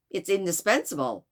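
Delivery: roughly attempted Chicago accent; poor Chicago accent. Detective insists to the servant, poor Chicago accent. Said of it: "my very poor attempt at a Chicago accent".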